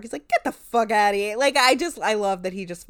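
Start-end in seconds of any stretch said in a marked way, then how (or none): 0.3-1.4 New York. Retold or imitated. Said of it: "he just goes, like, full New York".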